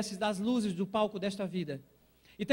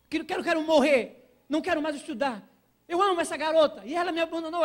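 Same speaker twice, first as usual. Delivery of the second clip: retold wailing plea; 5 semitones higher, 5 dB louder than usual. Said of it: "Eu digo".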